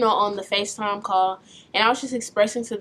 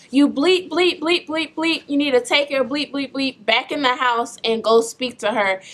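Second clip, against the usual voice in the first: raised-pitch angry rant at his daughter; retold cussing out. Dad furious at daughter by the truck, angry yelling. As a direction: replay the dad's yelling, a notch above calm. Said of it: "he starts cussing me out".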